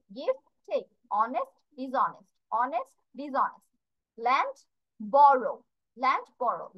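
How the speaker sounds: word pairs spaced out, each word distinct, like "Accept, reject"; careful pronunciation drill. Shown as a demonstration. Teacher has everyone listen carefully, pronunciation drill of pairs like "Poor, rich". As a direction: rise on the first word, fall on the second, as in "Lend, borrow". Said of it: "focus on the pronunciation again".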